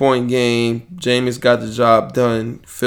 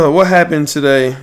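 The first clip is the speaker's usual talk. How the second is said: usual speaking voice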